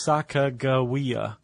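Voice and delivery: "Sacagawea" sounded out slowly, with a hard g; "Sacagawea" said slowly as written, g as in go; phonetic pronunciation. Shown as a demonstration. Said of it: "she's mentioned phonetically".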